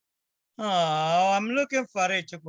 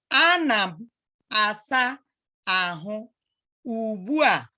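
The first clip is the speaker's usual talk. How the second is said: Ana m, asa, ahụ, ugbu a, slow with a pause after each word; slow model phrase. Shown as a demonstration. Teacher showing the child how she says the phrase. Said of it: "this is how I say".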